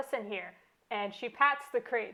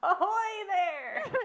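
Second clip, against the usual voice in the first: shrill, loud, very high-pitched shout; 10 semitones higher than usual. As narrator, voicing a character who spots a pillow on shore, a loud yell. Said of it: "there is a loud yell".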